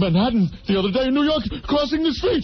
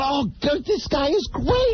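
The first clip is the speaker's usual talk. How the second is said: higher, mock-gushing audience member; laughing fan; 7 semitones higher than usual. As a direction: gush as if cracking up. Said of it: "room full of people laughing".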